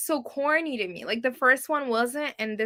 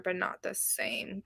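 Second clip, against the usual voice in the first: soft unvoiced whisper; whispered aside while reading chat; 3 semitones lower, 11 dB quieter than usual. Real, not acted. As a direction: whisper it like an afterthought. Reading a confusing chat reply.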